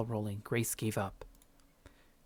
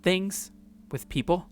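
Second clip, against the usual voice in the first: put-on higher, bright friendly young woman; Grace's voice; 6 semitones higher, 4 dB louder, slower than usual. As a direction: play Grace as cheerful and curious.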